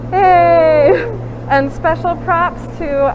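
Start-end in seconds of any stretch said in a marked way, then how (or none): 0.1-1.2 excited cheer. Real, not acted. Cheering the winner.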